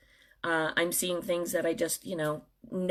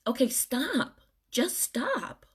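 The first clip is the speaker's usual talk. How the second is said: higher, firm cut-off; firm stop; 6 semitones higher, much slower than usual. Real, not acted. Telling griping listeners to stop, firm and raised. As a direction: shut the whining down firmly. Cuts off imagined complainers.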